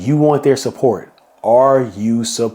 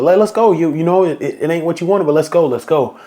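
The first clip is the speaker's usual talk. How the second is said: urging players on; 5 semitones higher than usual. Retold or imitated. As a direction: push the lagging players along. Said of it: "I was telling players like".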